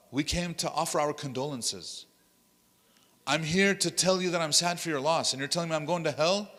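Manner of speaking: acted-out indignation, pitch climbing to the retort; mock-offended visitor protesting; offended mourner. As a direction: start sincere, turn affronted. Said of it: "you can see that's his expression".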